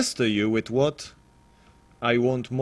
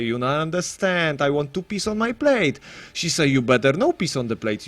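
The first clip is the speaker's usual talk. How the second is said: comic Italian man telling a joke, higher-pitched; Italian accent; 4 semitones higher, 3 dB louder than usual. Acted. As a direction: put on a sing-song Italian accent. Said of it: "that was more like an Italian accent".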